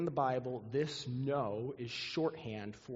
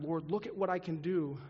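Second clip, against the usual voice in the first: mock boastful cry; 5 semitones higher than usual. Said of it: "we need to cry out. Not".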